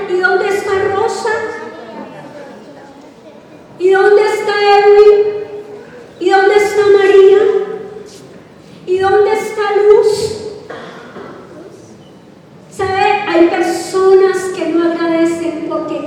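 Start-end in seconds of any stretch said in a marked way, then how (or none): 0.1-10.4 calling out. Retold or imitated. Jesus calling for the absent.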